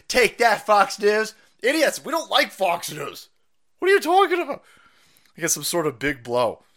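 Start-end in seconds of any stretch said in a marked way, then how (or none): 0.1-4.6 high, loud mocking crowd voice; mocking libs. Mocking the critics cheering against Fox News, loud and high. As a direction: sneer it out as gloating critics. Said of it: "they're like".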